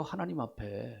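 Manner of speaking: ordinary talk, nothing marked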